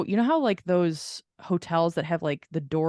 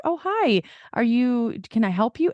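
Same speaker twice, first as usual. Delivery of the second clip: polite caterer; 4 semitones higher than usual. Retold or imitated. Cater manager greets them.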